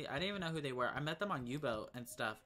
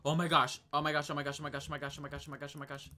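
excited, then fading; 4 dB louder, much faster than usual. Real, not acted. Excited repeated exclamation, fading.

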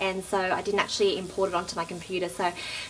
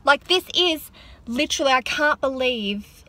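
higher, louder, slow disbelieving exclaim; overwhelmed with excitement after the salon; emotional outburst; 5 semitones higher, 3 dB louder than usual. Real, not acted. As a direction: let the thrill burst out slowly. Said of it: "I'm sorry if I'm getting, like, emotional".

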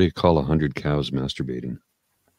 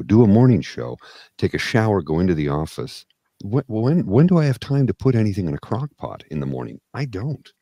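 building rant; 6 dB louder than usual. Retold or imitated. Host listing his busy morning to his cohost, a growing exasperated rant. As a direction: pile on the list until you're nearly shouting. Host ranting about slow cooker.

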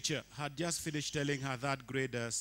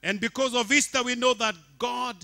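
loud, high, sustained sermon delivery; full-force preaching; 11 semitones higher, 16 dB louder than usual. Acted. Pastor proclaiming resurrection to congregation, loud preaching. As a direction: proclaim it to the whole church.

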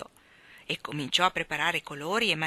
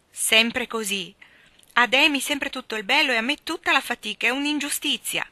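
loud, higher, bitter outburst; passionate protest; 6 semitones higher, 6 dB louder than usual. Acted. Jo protests to her mother, passionate loud outburst. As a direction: cry out at the unfairness. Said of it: "esclamò Jo con passione".

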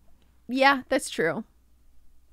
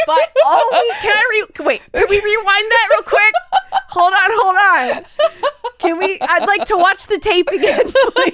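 pleading through laughter; laughing; 5 semitones higher, 4 dB louder than usual. Real, not acted. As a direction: keep laughing while asking. Laughing while asking rewind.

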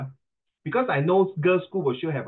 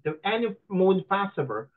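lightly mocking Western-accented recitation; imitated foreigner's English accent; 3 semitones higher than usual. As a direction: read aloud in a put-on Western accent. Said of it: "老外在讲英文".

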